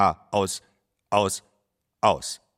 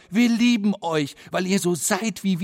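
loud call; 9 semitones higher than usual. Acted. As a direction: call out over your own covered ears. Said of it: "ruft ganz laut".

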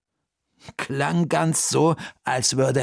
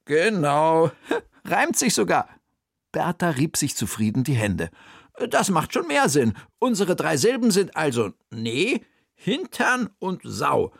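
higher, lively aunt puzzling; raised character voice solving a riddle; Bertha's voice; 6 semitones higher than usual. Acted.

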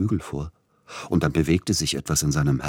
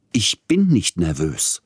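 louder, slow emphatic denial; snapping; 3 semitones higher, 5 dB louder than usual. Acted. Tschaikowski weist den Vorwurf laut und heftig zurück. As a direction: bite the words at him. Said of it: "fuhr Peter Iljitsch ihn an".

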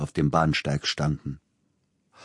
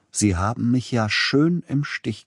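nasal gloating; 7 semitones higher than usual. Acted. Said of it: "genussvoll näselnd".

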